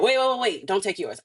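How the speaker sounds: retold urgent plea to hold on; urgent interruption. Stops friend mid pregnancy test.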